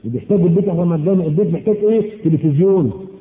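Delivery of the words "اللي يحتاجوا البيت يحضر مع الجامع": quick repeated mocking quote. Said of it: "مش كده؟".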